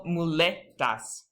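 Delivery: muletas said slowly with LE stressed. Shown as a demonstration. Teacher shows the spoken accent, slow stress on LE in muletas. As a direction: draw out mu-LE-tas, leaning on LE. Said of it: "that E is".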